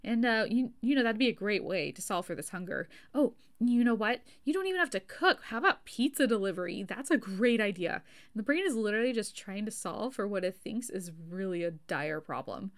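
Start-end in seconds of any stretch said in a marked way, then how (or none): 0.0-7.9 excited midbrain. Retold or imitated. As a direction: pitch the cake and the pizza like a cheerful salesman. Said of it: "it's getting really excited".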